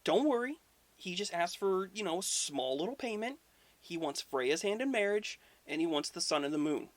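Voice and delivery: high, casual reassurance; lightly voiced trickster downplaying the price; breezy Loki.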